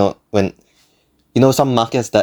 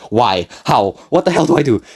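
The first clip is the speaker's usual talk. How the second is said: mild retold panic; 3 semitones higher than usual. Narrator asks himself as the clerk just stands there, mild mock panic. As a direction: ask it as a brisk, exasperated question.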